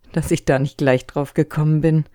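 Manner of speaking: loud amazed exclamation. A narrator's reading. Brother marvels at the monkeys, amazed and loud. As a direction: marvel at the discovery. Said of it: "staunte Jora".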